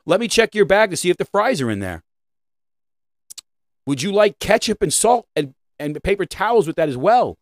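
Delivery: mock customer-service politeness; apologetic server. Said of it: "the thing missing in the conversation is".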